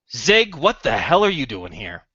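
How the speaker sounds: mildly irked father cutting in; rude, lightly voiced older man; rude interruption. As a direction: interrupt with a touch of rude disbelief. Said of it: "he rudely interrupts the two women".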